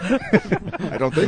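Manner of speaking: put-on slow, drawn-out Jewish accent. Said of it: "say it in your Jewish voice".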